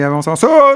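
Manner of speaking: loud shouting. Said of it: "Je parle trop fort".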